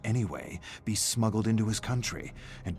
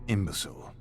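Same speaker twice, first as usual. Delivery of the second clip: lightly voiced scornful "Imbecile"; contemptuous sneer. Student sneering at his professor, mild contempt. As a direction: spit out "Imbecile" with disdain. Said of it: "That's what he calls Professor Blanchard".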